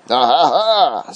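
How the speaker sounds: short, spaced-out mock laugh; acted laugh. Dwarf answers Thor's refusal, brief put-on laugh. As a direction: give a deliberate "ah, ha, ha".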